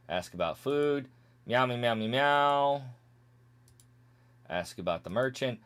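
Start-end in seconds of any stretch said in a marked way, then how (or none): 1.5-2.8 meowing gibberish in place of the dialogue; mock cat-people chatter. Skipping cat people's dialogue, mock meowing. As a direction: play the cat folk with light meows. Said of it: "Now we have the cat people".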